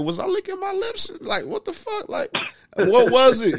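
hammed-up fretting over licking his lips; high mock panic. Man retelling how he worried after a pass, high mock panic. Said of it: "but I'm like".

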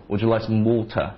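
water with the t dropped, wo-uh; British Would you like some water, t swallowed. Shown as a demonstration. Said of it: "英国人就是".

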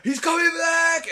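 high, loud, slow mock shout; warning shout. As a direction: call out the danger to the group. Vince warning the others.

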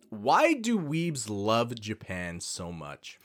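slow whispered question; whispering. Acted. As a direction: hush it out slowly. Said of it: "whispered podcast intro".

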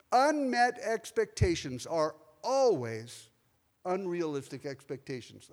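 Unmet expectations are always unrealistic expectations, slow, with unmet stressed; slow heavy emphasis. Shown as a demonstration. Pastor hammering home the Lord's lesson, slow and emphatic. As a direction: drive each word home, slowly. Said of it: "underline that seven times".

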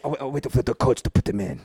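put-on caricatured Asian accent; hammed-up Asian accent; mock Asian accent. Ballplayer waiting for coach, mock Asian accent. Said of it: "that's a pretty good accent".

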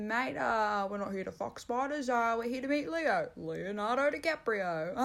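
lightly voiced mate doing broad Aussie slang; impersonating Sam. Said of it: "That was my impersonation of, uh, my co-host".

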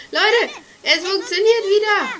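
loud relieved laugh through words; laughing with relief. Real, not acted. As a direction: laugh out the good news. Game works again, laughing.

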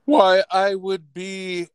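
slow, formal butler voice; polite butler robot. Acted. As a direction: answer like a stiff servant. Butler reply to request.

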